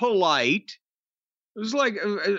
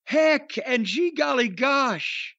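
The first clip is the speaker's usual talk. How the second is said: mocking baby face voice; 3 semitones higher, slower than usual. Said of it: "baby face out there going".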